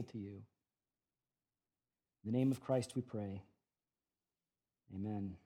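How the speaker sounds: prayer. Acted. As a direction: pray it humbly to the Father. Pastor leads prayer.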